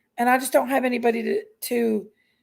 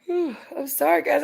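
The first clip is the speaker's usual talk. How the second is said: yawning through the words; 3 semitones higher than usual. Real, not acted. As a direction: talk through a big yawn. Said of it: "I keep yawning".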